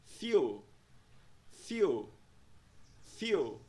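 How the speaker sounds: "fuel" cut to its first syllable, FYOO; isolated falling model of "fuel" without its ending; first syllable only. Shown as a demonstration. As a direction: say "fuel" as just "few", no final L. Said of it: "Pronúncia da primeira sílaba é".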